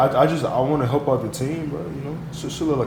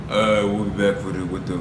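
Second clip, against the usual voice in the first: YouTuber voice; 4 semitones lower than usual. Pretend. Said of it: "put your YouTuber voice on".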